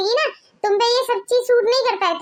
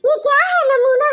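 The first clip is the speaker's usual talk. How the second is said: laughing; 6 semitones higher than usual. Acted. Still mocking the outfit.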